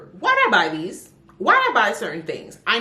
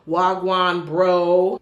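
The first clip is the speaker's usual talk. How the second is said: louder, mock quote of the book's greeting Wagwan bro; mocking the book's wording; 6 dB louder, much slower than usual. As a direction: say Wagwan bro as the unnatural version. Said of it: "I was seeing a lot of".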